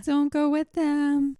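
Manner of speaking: high, slow mock warning. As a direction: warn them in a high, drawn-out voice.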